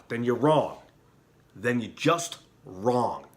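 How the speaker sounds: loud heated scolding of the church; angry. Real, not acted. Preacher scolding the Pope's followers, angry and loud. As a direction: hammer each point home, indignant. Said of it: "I'm sorry for being angry".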